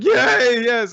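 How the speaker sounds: very high, loud cheer; high-pitched shouted yay; overjoyed Denji. Retold or imitated. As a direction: cheer like a giddy kid. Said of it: "Denji's, of course, like".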